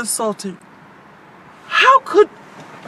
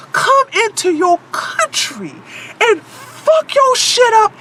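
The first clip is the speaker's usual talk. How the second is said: angry rant; 2 semitones higher than usual. Real, not acted. Ranting at Germany about how she was treated, voice breaking. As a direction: spit out each insult, close to tears.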